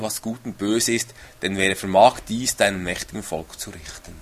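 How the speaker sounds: measured, solemn reading of the verse; steady formal Bible reading; scripture reading. Acted. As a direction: read it like scripture from the pulpit. Reads Bible prayer aloud.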